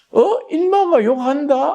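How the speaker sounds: very high, startled, indignant retort.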